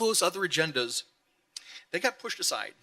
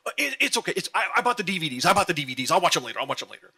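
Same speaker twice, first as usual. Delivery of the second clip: breezy husband impression; 3 semitones higher, faster than usual. He'd look at me and go.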